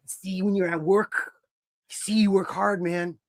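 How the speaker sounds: mock mystic intensity. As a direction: lay it on like a self-serious tough-guy sage. Voicing Moxley's intense philosophy.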